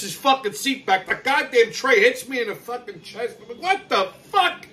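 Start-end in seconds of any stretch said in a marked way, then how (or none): 3.6-4.7 high, slow, stretched-out what the fuck; outraged disbelief. Retold or imitated. Seat slammed into his chest, he reacts in high slow disbelief. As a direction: let the outrage rise up slowly.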